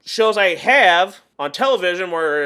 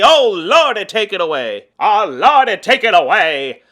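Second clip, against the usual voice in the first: a hint of a hammed-up preacher, loud on "Oh, Lordy"; lightly mock a revival preacher crying out to the Lord; priest voice; 5 dB louder than usual. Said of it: "doing my priest voice".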